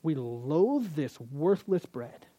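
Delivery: slow, disdainful sneer; slow scornful quote; contemptuous sneer. Retold or imitated. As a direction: drag out the contempt. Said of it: "and say".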